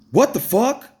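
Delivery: high, sharp what the fuck; stunned disbelief. Real, not acted. Charges dropped after two months, stunned outraged disbelief. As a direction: hit it like you can't believe it.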